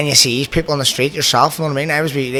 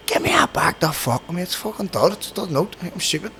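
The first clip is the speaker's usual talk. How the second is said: higher, mock outraged retort; retold indignation; 5 semitones higher, 4 dB quieter than usual. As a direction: replay the row with indignant pitch. Retold row over dud note.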